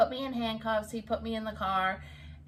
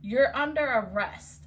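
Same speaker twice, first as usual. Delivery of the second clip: firm, louder imitation of a cop; arresting officer; 3 semitones higher, 5 dB louder than usual. Cop announces the arrest to her, firmly imitated. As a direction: mimic an officer laying down the law. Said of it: "He said".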